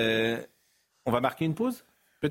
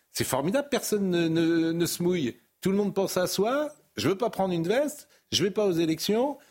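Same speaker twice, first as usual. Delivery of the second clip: higher-pitched sarcastic exasperation; mock indignation; 5 semitones higher than usual. Host mocking politicians who won't get involved, sarcastically indignant. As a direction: rail at the shirkers, lightly acted.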